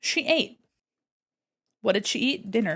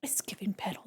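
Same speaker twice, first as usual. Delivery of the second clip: soft unvoiced whisper repeating it; whispered echo; 13 dB quieter than usual. Real, not acted. Crafting alone, whispering back to her partner. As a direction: breathe the phrase back quietly.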